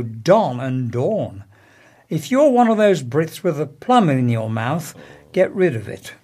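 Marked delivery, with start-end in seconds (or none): 0.0-1.4 "don" and "dawn" given the same vowel; American merged vowel in "don" and "dawn"; vowel merger. Shown as a demonstration.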